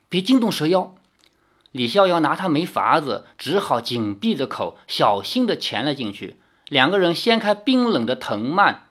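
steady storyteller reading a novel aloud; story narration. A narrator's reading. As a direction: tell the tale evenly to listeners. Reads novel chapter aloud.

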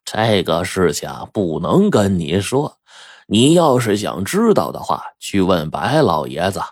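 slow, measured man; slowed-down, lightly voiced Huang Dui; firm refusal. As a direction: turn her down calmly.

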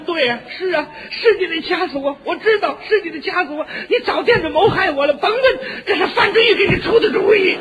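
hammed-up paranoid spouse; mock accusing wife. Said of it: "他也就说".

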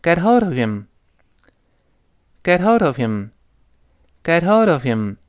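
"Get hold of him" run together as one phrase; linked model phrase. Shown as a demonstration. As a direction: link "Get hold of him", rise and fall on "hold". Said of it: "跟老师读起来".

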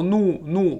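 怒 as a Chinese "nù" in place of English new; wrong Chinese-like sound. Shown as a demonstration. Teacher warning students off the Chinese-like sound. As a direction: say 怒 with a Chinese falling tone. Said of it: "同样不要读怒".

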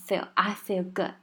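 barely touch the tongue tip at the end of feel; easy, unforced feel; relaxed feel. Shown as a demonstration. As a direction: feel with a light uncurled L. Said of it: "放轻松一点".

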